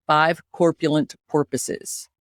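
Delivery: warm-up chant in a Scottish accent. Shown as a demonstration. Host leading co-host through warm-up, Scottish accent. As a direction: recite it with a Scottish accent, drawing out the last phrase. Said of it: "do it with the Scottish accent".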